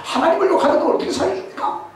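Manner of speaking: very high, laughing protest; 아주 높은 목소리로 웃으며 따지는 말; indignant boy. Acted. David protests to King Saul. (다윗이 사울 왕에게 당연하다는 듯 항변한다)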